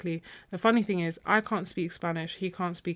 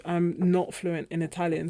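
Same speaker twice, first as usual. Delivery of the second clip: usual speaking voice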